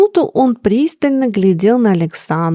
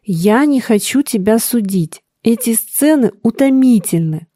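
coldly. Acted. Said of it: "холодно заметил Александр".

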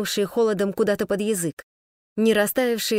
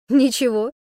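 louder, perky reply; brisk cheerful report; 3 semitones higher, 4 dB louder than usual. Acted. Man cheerfully reports to Sashka, brisk. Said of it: "бойко и весело отрапортовал".

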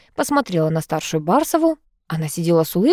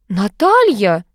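sharp, raised call of a name; 3 semitones higher, 5 dB louder, much slower than usual. A narrator's reading. Mother raises her voice at the maid, scolding. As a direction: rebuke her loudly by name. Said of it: "повысила голос Анюта Олеговна".

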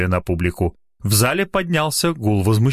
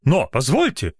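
reasonable objection; 5 semitones higher than usual. Acted. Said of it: "резонно возразила".

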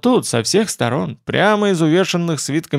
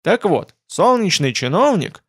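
whiny dragon voice; 6 semitones higher than usual. Acted. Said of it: "И без перерыва продолжил".

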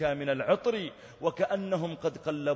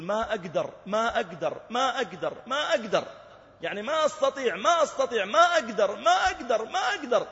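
higher, louder retold wailing plea; imitating crying; 10 semitones higher, 6 dB louder than usual. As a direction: echo a dying man's helpless cry. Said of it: "فجعل يبكي ويقول". (تقليد بكاء متحسّر)

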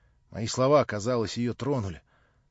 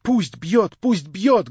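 high, loud, bitter cry; raised voice, wounded and stubborn; bitter repetition; 8 semitones higher, 9 dB louder, much slower than usual. A narrator's reading. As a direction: repeat it with embittered defiance. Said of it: "горько повторяла она".

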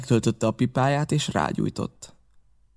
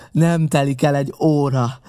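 louder, heavier, NEM stressed, less high; pirate repeating his threat more grimly; angry repeated threat; 3 semitones higher, 5 dB louder than usual. A narrator's reading. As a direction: pound the warning home.

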